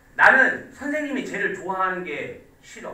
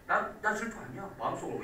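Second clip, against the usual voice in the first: mock inner denial; 8 dB quieter than usual. Shown as a demonstration. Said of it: "이렇게 한다고".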